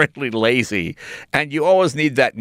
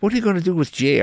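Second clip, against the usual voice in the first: worried parents; 6 semitones higher, faster than usual. Retold or imitated. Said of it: "my parents having that discussion".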